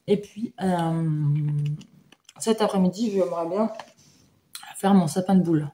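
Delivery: talking with a mouthful; words round a bite of banana chips; chewing while talking. Real, not acted. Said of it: "je suis en train de manger".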